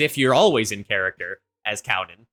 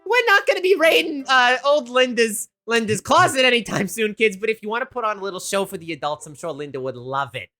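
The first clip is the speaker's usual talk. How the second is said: higher, louder flustered mom; mom stopping kids; 9 semitones higher, 4 dB louder than usual. Acted. Woman stopping kids raiding Linda's closet, flustered. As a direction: halt the kids, then soften. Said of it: "the woman's kinda like".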